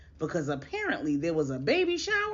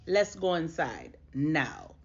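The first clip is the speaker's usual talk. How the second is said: put-on Trini accent; slower than usual. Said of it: "in her Trini accent".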